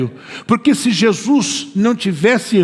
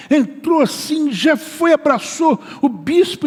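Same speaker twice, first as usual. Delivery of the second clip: alto e agudo, cheio de alegria; entrada exultante; 8 semitones higher, slower than usual. Retold or imitated. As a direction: imite a mulher entrando toda alegre. Mulher entra com alegria exultante. (entrada eufórica imitada)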